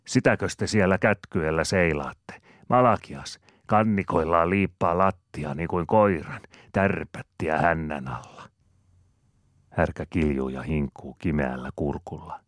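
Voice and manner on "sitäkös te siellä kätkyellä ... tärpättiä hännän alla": a calling shout, louder and higher. A narrator's reading. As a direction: holler it toward the house. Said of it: "ja huutaa tupaan". (Rosina huutaa veräjältä tupaan)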